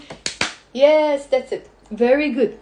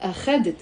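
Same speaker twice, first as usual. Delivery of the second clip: أخذت stressed on the middle syllable خَ; weight on the KHA of أخذت; stress on second syllable; 3 semitones lower, 3 dB quieter, much faster than usual. Shown as a demonstration. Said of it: "The stress is on the خ".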